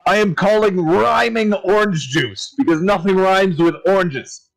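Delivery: a cheerful barkeep proudly showing his drink; tavern keeper voice. Acted.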